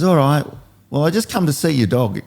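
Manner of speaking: put-on high, boyish kid's voice; little kid voice. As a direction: squeak it up like a small boy on a bike. Kid says goodbye and rides off.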